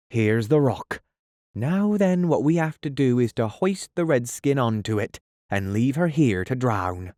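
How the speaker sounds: a hint of a brisk Irish pirate; Smee's pirate voice. Smee giving orders to his fellow pirate.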